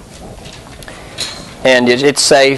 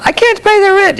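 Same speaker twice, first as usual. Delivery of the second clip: very high wailing heroine voice; damsel in distress. Acted. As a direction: squeal it like a helpless heroine. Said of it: "I just put on three masks".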